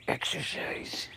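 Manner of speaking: slow whispered word. Real, not acted. Telling viewers before exercising, slow whisper. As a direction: breathe the word out.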